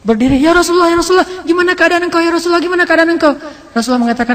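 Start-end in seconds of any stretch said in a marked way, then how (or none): 0.4-3.4 eager wounded woman. Acted. Wounded woman greets the Prophet.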